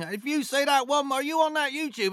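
high-pitched mock angry challenge; retold shouting up. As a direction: imitate a bloke shouting up at someone. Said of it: "he's, like, shouting up at him".

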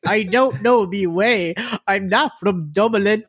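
high, drawn-out mock plea; tearful begging woman. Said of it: "kept crying about her child".

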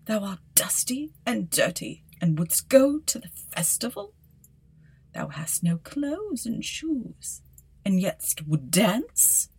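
whispered sneer rising to haughty scorn; mock her dream of dancing; scornful stepmother. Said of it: "she said".

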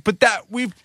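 high pleading outrage slowing on the last words; a parent pushing back against another IV attempt; exasperated protest. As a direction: stretch out the final words in disbelief. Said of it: "And I'm like".

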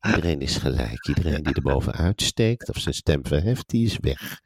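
controlled, menacing mock decree; intimiderende baas. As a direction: play an intimidating leader who tolerates no objection. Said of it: "zo heel zachtjes, intimiderend gaat praten". (gespeeld dreigend en beheerst)

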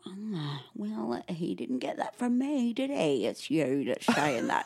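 mock-smug partner, drawn out; imitating a smug husband. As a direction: say it slowly, pleased to be off the hook. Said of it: "had a smug look on his face".

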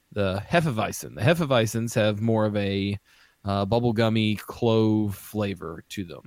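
talking while chewing gum; words around a wad of gum. Real, not acted. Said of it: "What kind of gum are you chewing?".

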